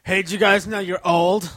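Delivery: put-on high, loud taunting kid voice; hammed-up bratty teen jeering; mocking teen voice. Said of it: "listen to this one over here".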